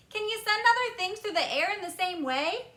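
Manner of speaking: put-on high, excited boy's voice; eager boy. A narrator's reading. Boy quizzing Wonka about television, eager and high.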